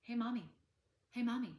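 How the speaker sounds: put-on high, loud kids calling Hey, mommy over and over; whiny kids calling mommy. Kids interrupting mom at dinner, whiny calling out. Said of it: "I call them the "Hey, mommies".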